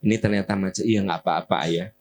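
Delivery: calm, forgiving exchange; gently acted reconciliation; accepting couple. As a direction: answer your spouse evenly, without complaint. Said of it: "Tapi kalau gini".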